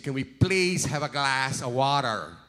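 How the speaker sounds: a light put-on British accent, laughing; ordering water British style, half laughing; mock British accent. Preacher copies South African English when ordering water, in a light mock British accent. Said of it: "we said".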